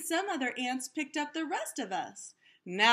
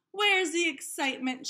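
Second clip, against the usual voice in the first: higher, louder exasperated demand; bored complaint; 6 semitones higher, 4 dB louder than usual. A narrator's reading. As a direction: whine for some thrills. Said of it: "she asked".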